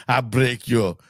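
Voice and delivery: mock Russian menace; heavy Russian accent menace. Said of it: "He should do a full Russian".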